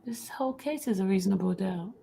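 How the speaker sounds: unvoiced conspiratorial whisper. Real, not acted. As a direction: whisper it like a secret. Conspiratorial aside.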